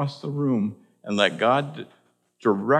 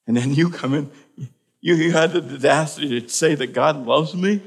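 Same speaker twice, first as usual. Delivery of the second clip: emotional retelling; 3 semitones higher, 4 dB louder than usual. Retold or imitated. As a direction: voice the stunned woman's outburst. Suicidal lady quoted.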